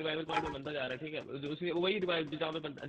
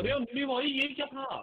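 startled cry; 10 semitones higher than usual. Real, not acted. Startled by sudden enemy fire.

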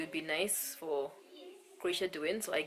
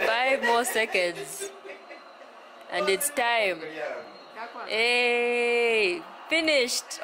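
strained, loud through the effort; holding a plank; 5 semitones higher, 9 dB louder, much slower than usual. Real, not acted. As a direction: push through the last seconds.

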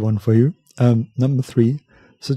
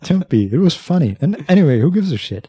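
reassuring woman; 6 semitones higher, 3 dB louder than usual. Acted. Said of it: "She appears to genuinely want you to understand it's okay".

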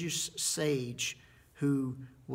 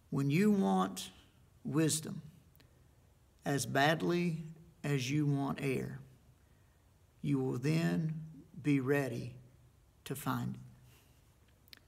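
slow solemn sage; slower than usual. Retold or imitated. Sage's slow answer to student.

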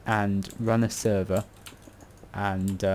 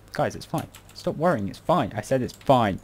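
increasingly loud, mock-exasperated insistence; insistent reassurance; 4 semitones higher, 4 dB louder than usual. Telling viewers to stop worrying, mock-exasperated insistence. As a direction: build up to a louder protest.

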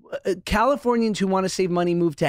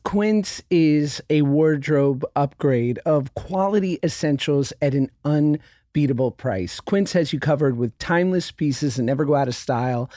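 ad read; 3 semitones lower than usual. Real, not acted. Reads sponsor ad.

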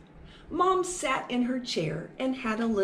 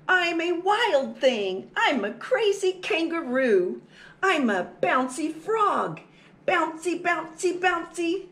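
put-on high, boisterous mouse-child calling out; excited shout; 7 semitones higher, 4 dB louder than usual. Energetic little mouse busy jumping, excited shouting. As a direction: bounce along in a high, lively shout. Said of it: "he shouted".

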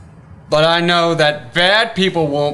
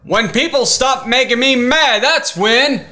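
worked-up, higher-pitched retort; mad; 5 semitones higher than usual. Acted. Grumpy puppet answers calming friend, mad. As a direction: fire back, fed up and pitched high.

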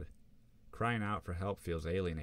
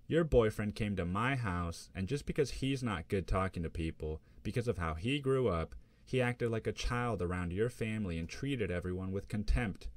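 accusing mother; 4 semitones higher, 4 dB louder than usual. Acted. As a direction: scold him through the speaker. Mother accusing over the phone.

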